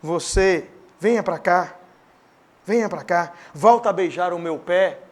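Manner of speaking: put-on low, coaxing voice of the old master; old master sin voice. Preacher voicing sin as the old master, low coaxing. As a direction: lure them back like a slave owner, lightly. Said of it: "vira e fala assim".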